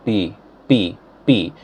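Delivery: "P" said the Indian way; Indian pronunciation. Shown as a demonstration. Teacher showing how India says P, Indian pronunciation. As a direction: give the Indian "P" sound. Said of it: "when you say in India".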